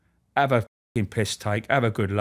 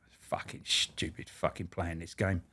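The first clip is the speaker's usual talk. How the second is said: sulky mutter; 7 semitones lower, 13 dB quieter, slower than usual. Retold or imitated. Sulking after throwing bat down.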